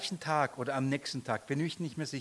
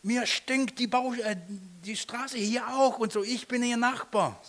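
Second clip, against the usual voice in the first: hammed-up angry neighbour; mock shouting neighbour; 7 semitones higher than usual. Neighbour shouting back about the traffic, mock yell. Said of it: "schreit er mich an".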